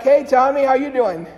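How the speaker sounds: loud friendly call back. Retold or imitated. Priest calling back to the kid, loudly. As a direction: call it back across the lot. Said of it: "he called back".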